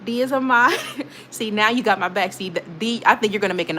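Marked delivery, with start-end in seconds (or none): 0.1-0.7 higher, chanting cheer; excited cheering. Real, not acted. Streamer cheers for her new mod, excited chant. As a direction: cheer them on like a fan.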